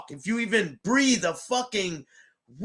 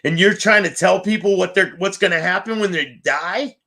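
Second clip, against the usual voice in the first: loud, angry rant; 6 dB louder than usual. Real, not acted. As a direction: tell him off hard.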